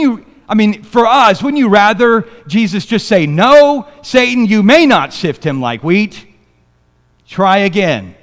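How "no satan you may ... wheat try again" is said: imagined firm rebuke. Retold or imitated. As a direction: slam the door on Satan. Jesus rebuking Satan, imagined.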